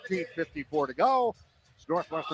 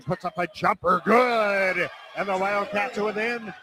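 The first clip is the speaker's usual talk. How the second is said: play-by-play. Acted. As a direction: call the possession, then shout the basket. Live radio basketball call.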